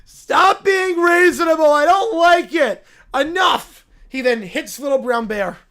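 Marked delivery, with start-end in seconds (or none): 0.0-3.8 put-on louder, higher, snapping kid; bratty outburst. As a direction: shut everyone down like a toddler. Cub losing temper.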